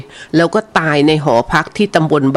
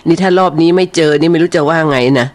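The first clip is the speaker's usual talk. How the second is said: usual speaking voice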